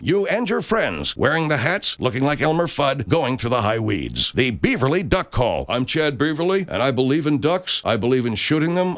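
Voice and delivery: folksy pitchman selling duck calls; radio ad read. Acted. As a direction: sell it like a cheesy radio ad.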